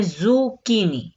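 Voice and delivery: ज़ुकीनी with a hard k, zoo-KEE-nee; correct pronunciation. Shown as a demonstration. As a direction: say ज़ुकीनी with "k", no "ch" sound. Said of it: "pronunciation जो देनी है वो करनी है".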